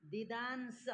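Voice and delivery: दिदांस said softly, barely heard; student recites दिदांस to the teacher, too quietly. Real, not acted. दिदांस mumbled softly. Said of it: "दिदांस बोलो".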